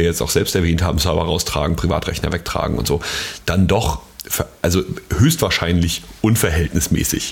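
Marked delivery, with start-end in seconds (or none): 5.2-6.0 HÖCHSTWAHRSCHEINLICH set apart with deliberate emphasis; stress on HÖCHSTWAHRSCHEINLICH. Real, not acted. Podcaster qualifying a legal judgement, deliberate stress on HÖCHSTWAHRSCHEINLICH. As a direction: lean on the word HÖCHSTWAHRSCHEINLICH. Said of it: "Betonung liegt auf höchstwahrscheinlich".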